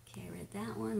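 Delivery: whispered aside to herself. Real, not acted. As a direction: mutter it under your breath. Quiet aside while scrolling comments.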